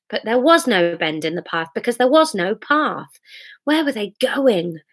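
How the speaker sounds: measured, expressive narrator; dramatic story narration. A narrator's reading. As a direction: paint the storm as you read. Reads story aloud.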